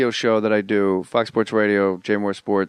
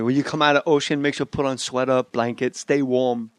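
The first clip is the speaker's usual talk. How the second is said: Doctor Lou. Retold or imitated. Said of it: "That's what Doctor Lou tells me".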